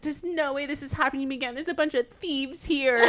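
high-pitched mock-tearful outrage; overplayed weepy protest; dramatic crying. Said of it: "the most dramatic thing ever".

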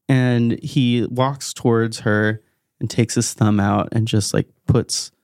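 usual speaking voice

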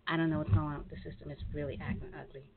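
ordinary talk, nothing marked

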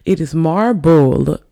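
marble said slowly and loudly; stressed marble. Shown as a demonstration. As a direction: lean hard on marble. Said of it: "I'm sorry, guys".

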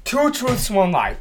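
gasping, high sudden idea; excited idea. Real, not acted. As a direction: blurt it out excited.

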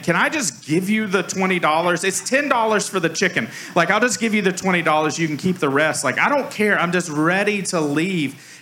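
frustrated shopper waving his money at the till; fed up. Retold or imitated. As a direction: push to just pay and leave. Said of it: "I've lost it".

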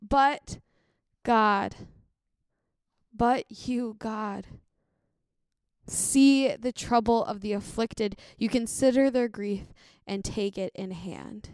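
slow, weighted reading with long pauses; solemn scripture reading. Acted. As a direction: read the verse slowly, letting each phrase settle. Reads the verse slowly to close.

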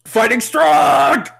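high, slow over-the-top hype; hammed-up hype announcer. Hamming up an announcer.

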